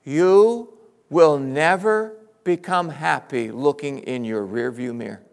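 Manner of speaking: slow, weighty sermon line; slow emphatic. Shown as a demonstration. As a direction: lay it down slowly. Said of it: "repeated line".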